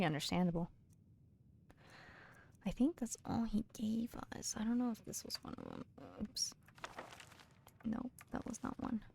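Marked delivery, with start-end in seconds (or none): 2.6-9.0 whisper. Real, not acted. Muttering to self off-mic.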